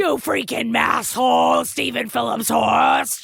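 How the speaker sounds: sling playful abuse at your best friend; mock insult. Hosts trade mock insults in greeting.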